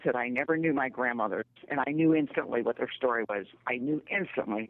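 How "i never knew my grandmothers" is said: a hint of a somber retold voice; understated somber shop owner. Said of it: "with a real somber tone".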